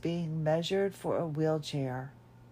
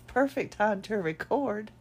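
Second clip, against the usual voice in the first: laughing; 3 semitones higher than usual. Real, not acted. Laughing at own timing.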